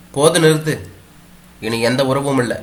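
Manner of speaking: mother-in-law silencing her daughter-in-law, shouting; angry shout. Acted. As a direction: slam the words down like a door. Mother-in-law cutting off relations.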